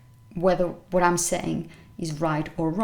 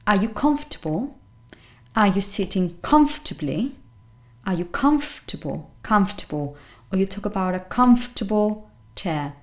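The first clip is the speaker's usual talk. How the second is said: comfortable as CUMF-tuh-bul within the phrase; strong COMF in comfortable, weak ending; stress on first syllable. Shown as a demonstration. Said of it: "That's the stressed syllable".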